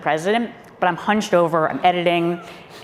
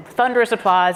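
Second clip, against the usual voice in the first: ordinary talk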